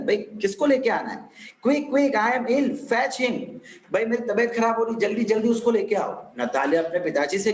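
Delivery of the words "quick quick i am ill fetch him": higher, mildly frantic plea; a touch of panic, pitched up; urgent plea. Acted. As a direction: act out an urgent call for help. Natalya's frantic plea to her father.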